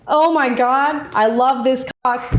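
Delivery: slow, high swooning delight; acted gushing admiration; genuinely enthusiastic. Shown as a demonstration. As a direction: draw it out, thrilled and adoring. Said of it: "if you say it genuinely".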